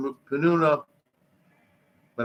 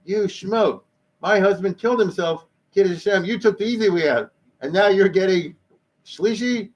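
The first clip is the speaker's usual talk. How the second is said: higher, outraged mock scolding; a widow scolding him, pitched up and indignant; 5 semitones higher than usual. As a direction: widow berates the man who got an honor, indignantly. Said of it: "She's like".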